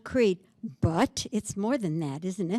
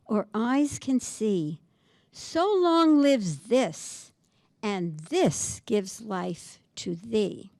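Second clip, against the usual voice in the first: slow, measured reading of verse; slow solemn poetry reading; poem recital; slower than usual. Acted. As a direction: savour each line of the couplet. Reciting sonnet closing couplet.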